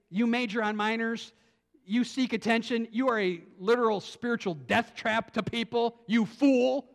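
forceful string of accusations; lightly acted scathing rebuke; blasting away. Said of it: "he's just blasting away at this Pharisee".

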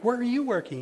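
keen question to a friend about his job; eager question. Retold or imitated. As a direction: jump at the news.

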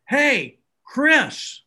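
high, loud call across the crowd; yelling across. Retold or imitated. Calling to Chris across the serving line, loud high yell. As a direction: call his name out over the line. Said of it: "And I yell across".

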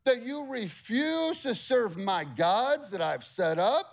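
high, rising incredulous king; king putting them on blast. Acted. Nebuchadnezzar putting the three on blast. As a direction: confront them in disbelief. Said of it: "He's putting them on blast".

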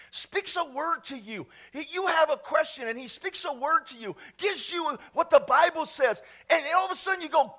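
driving, urgent sermon delivery; emphatic preaching. Real, not acted. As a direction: press the point on the congregation. Preaches at full force.

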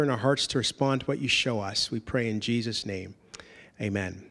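low, subdued praying voice; hushed congregational prayer, dropping away to the amen. Real, not acted. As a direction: pray quietly, pausing between phrases. Leads a prayer.

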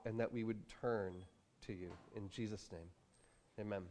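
low-key, unhurried praying; earnest prayer with pauses. Real, not acted. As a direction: lead the room quietly in prayer. Leads the congregation in prayer.

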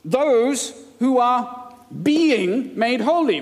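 "being" drawn out slowly; slow, pointed reading of "being made holy"; stress on tense. Shown as a demonstration. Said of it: "he completely changes his tense".

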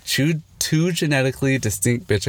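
slight lisp from retainers in mouth; talking with retainers in. Real, not acted. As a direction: speak around a mouthful of retainers. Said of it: "I got my retainers in, I can't speak".

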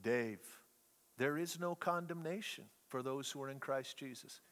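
low, soft voice from the dark; mysterious voice. Retold or imitated. Friend whispering to a crying roommate, hushed and low. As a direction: speak it like a hushed voice from nowhere. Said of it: "I hear this voice".

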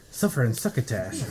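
lisping; a lisp from a spitty mouth. Real, not acted. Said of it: "I'm sounding like I got a lisp".

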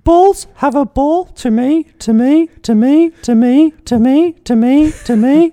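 very high, loud monotone bot falsetto; machine-like repeating high mock-female voice; Alice voice. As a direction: chant it slowly on one piercingly high note. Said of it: "I better do an Alice voice".

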